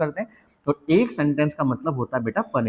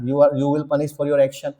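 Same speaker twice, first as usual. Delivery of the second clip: mocking basic English; much slower than usual. Shown as a demonstration. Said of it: "बच्चे से word नहीं है यार".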